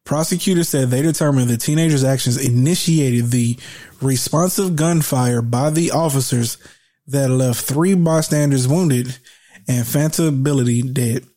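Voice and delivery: slow news read with pauses between phrases; deliberate re-read. Real, not acted. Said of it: "read that shit again 'cause maybe y'all need that".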